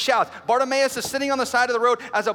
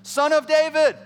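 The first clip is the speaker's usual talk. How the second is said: raised, insistent shout; 4 semitones higher, 4 dB louder, slower than usual. Acted. Confident blind beggar calling on Jesus, shouting. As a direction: stretch out the plea, loud and high. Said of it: "and he's shouting".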